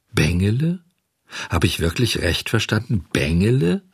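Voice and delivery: astonished questioning, name rising at the end; incredulous exclamation. Acted. Puppet hearing his own name from the pigeon, astonished. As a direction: echo the name in disbelief. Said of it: "rief der Hampelmann".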